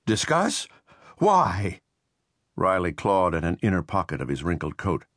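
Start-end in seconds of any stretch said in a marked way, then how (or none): 0.1-1.8 sharp, high disbelieving echo; incredulous scoff. A narrator's reading. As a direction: throw the word back in disbelief, pitched way up. Riley scoffs at the offer.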